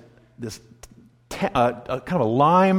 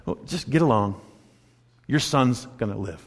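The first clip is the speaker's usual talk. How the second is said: casual; 5 semitones lower, 3 dB quieter than usual. Shown as a demonstration. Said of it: "such a casual response".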